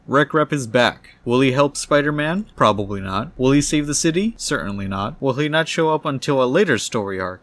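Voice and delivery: loud teaser questions, swinging up, answers dropping; announcer-style editor's note. Acted. Comic editor teasing readers, announcer voice. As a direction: hype it like a comic-book narrator.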